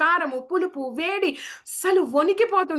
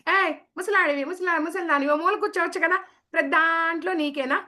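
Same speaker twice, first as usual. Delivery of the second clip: put-on higher, rude child snapping at grandparents; mock scolding child; 4 semitones higher than usual. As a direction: imitate a cheeky kid telling off an elder. Children scolding old people. (పెద్దవాళ్ళను తిట్టే పిల్లవాడిలా ఎగతాళిగా)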